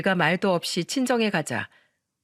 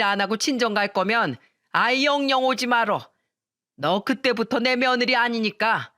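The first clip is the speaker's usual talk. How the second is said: spiteful mother-in-law; 2 semitones higher than usual. Acted. Mother-in-law cursing her daughter-in-law, sneering. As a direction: spit out insults at the daughter-in-law.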